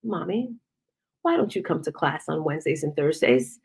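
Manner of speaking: soft, low, careful request; gentle pleading. Retold or imitated. Daughter asking her mother about class, gentle and soft. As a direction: ask softly, holding the frustration back.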